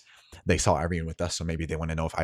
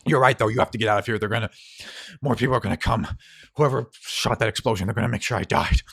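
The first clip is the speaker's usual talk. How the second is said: strained urging; 3 semitones higher, 5 dB louder, faster than usual. Acted. Dying Harlan urges her away.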